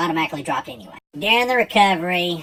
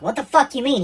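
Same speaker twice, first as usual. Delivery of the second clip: baffled outburst; 7 semitones higher than usual. Retold or imitated. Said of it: "he's like".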